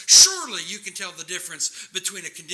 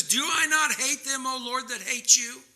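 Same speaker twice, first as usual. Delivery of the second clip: raised, indignant question; mildly angry appeal in a higher voice; angry psalmist; 5 semitones higher than usual. Acted. Psalmist asks the Lord about his haters, angry. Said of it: "He's angry".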